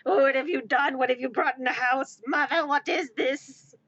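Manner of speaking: indignant cat questioning its owner; mock-outraged pet demanding answers; cat's scolding voice. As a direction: imitate an appalled cat. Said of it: "paw it and go".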